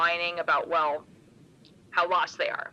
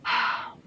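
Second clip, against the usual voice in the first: theatrical sigh; 3 semitones higher than usual. Acted. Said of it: "big theatrical sigh".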